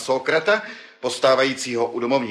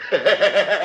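mocking laugh; 6 semitones higher, 3 dB louder than usual.

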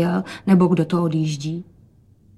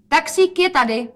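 higher, louder excited call; 8 semitones higher, 4 dB louder than usual. Acted. Rozetka calls out that the taxi is here. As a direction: call it out happily. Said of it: "zvolala Rozetka".

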